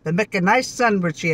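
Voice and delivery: broad Yorkshire, short "mek" for make; Yorkshire dialect. Shown as a demonstration. Wife repeats the catchphrase untranslated, Yorkshire dialect. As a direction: put it back into Yorkshire. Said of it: "that's Yorkshire".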